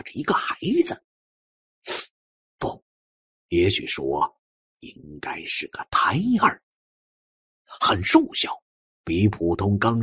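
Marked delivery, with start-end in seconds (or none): none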